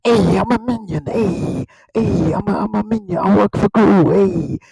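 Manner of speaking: lightly voiced cartoon creature accent; Minion. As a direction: do a mild silly henchman voice. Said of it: "they just kinda speak".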